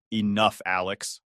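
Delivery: sharp voice. Acted. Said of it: "his voice sharp".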